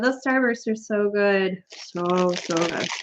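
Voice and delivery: soft, slow, dreamy; savoring. Real, not acted. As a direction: linger on each word with pleasure.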